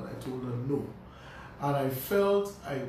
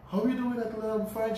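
voicing the aunt; 7 semitones higher than usual. Aunt voiced on phone.

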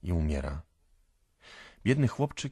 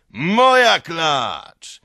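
slow, high possessive bellow; shouting; 11 semitones higher, 13 dB louder, much slower than usual. A narrator's reading. Owner claiming his mare as he strikes, bellowing. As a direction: roar it out, stretching every word. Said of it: "krzyczy Mikołka".

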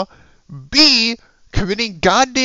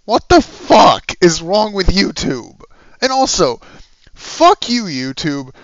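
loud, hoarse-sick yelling rant; real yelling; 6 dB louder than usual. Real, not acted. Sick vlogger yelling at YouTube, real loud rant. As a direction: yell at YouTube though out of breath. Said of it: "where I'm yelling like this".

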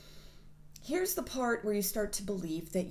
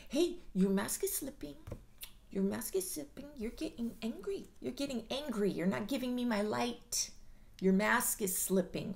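raised, teasing singsong warning; mock taunting; 3 semitones higher than usual. Speaker taunting the codependent about their mask, teasing. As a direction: needle them, half-playful. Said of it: "can I start saying".

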